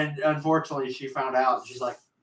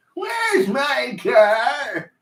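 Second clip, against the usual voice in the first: put-on very high-pitched, frantic, confused, panicky old man voice; 11 semitones higher, 4 dB louder than usual. Acting out a lost grandpa asking where his car is: panicking old man voice. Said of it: "sound like an old man, like, having a panic attack".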